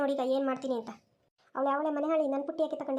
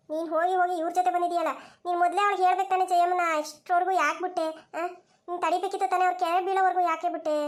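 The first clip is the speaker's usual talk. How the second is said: raised-voice reproach; indignant scolding; 3 semitones higher than usual. Acted. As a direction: scold a friend for not stepping in. Scolding friend for letting them fall.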